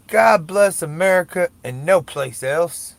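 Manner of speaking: mock a candidate's slow, forceful slogan; presidential candidate. Mimicking a presidential candidate's patriotic line, loud and slow. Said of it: "the good dude that's running for president says".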